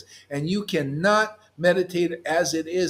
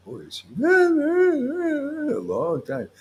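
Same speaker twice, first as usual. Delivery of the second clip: laughing; 12 semitones higher, much slower than usual. Real, not acted. Laughing about crying.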